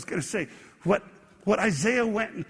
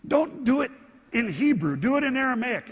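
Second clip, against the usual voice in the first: pleading, rising high and louder; begging; 5 semitones higher, 3 dB louder than usual. Retold or imitated. Townspeople begging the shouting envoy to stop, pleading. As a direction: beg the enemy to stop, pitched up. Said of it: "they even begged him".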